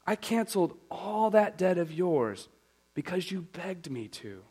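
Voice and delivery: king's rebuke. Acted. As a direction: scold him for the mercy he was shown. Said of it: "In anger".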